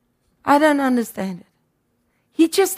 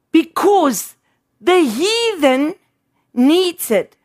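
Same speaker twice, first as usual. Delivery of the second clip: scripture quote, slowed; slower than usual. Retold or imitated. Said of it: "he says in Matthew six".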